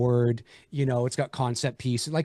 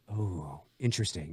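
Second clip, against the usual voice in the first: intrigued viewer; 7 semitones lower, 8 dB quieter than usual. Retold or imitated. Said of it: "just something like".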